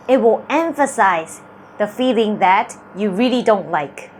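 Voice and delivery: ordinary talk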